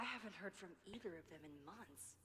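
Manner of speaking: whisper. Real, not acted. Inner monologue whisper.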